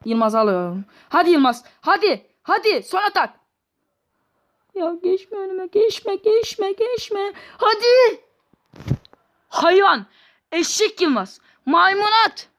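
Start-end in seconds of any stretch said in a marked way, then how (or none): 1.1-8.2 much higher, rising to a frantic pitch; desperate high-pitched cheering for the final attack; frantic urging. Real, not acted. 9.5-12.5 high-pitched angry name-calling; exasperated insults. Real, not acted. Insulting the player after the miss.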